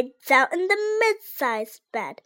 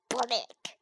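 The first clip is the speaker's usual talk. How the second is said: groan; 3 semitones lower, 11 dB quieter than usual. A narrator's reading. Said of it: "she groaned".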